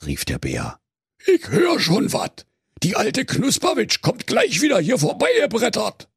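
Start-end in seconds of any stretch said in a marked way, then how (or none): 1.3-6.1 much higher, brash Berlin youth bear; mock the bored wolf; high-pitched slangy bear teen; cheeky teen bear.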